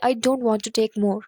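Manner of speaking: slow, deliberate wrong example; slow demo. Shown as a demonstration. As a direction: spell out the rude version slowly. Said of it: "اپنے انداز میں اس طرح سے مت کہیے گا". (آہستہ غلط مثال)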